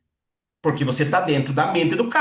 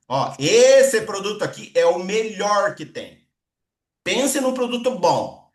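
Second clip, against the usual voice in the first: emphatic, drawn-out praise for the product; enthusiastic sales pitch; 3 semitones higher, 4 dB louder than usual. Shown as a demonstration. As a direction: talk the product up with gusto. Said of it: "fale com mais empolgação".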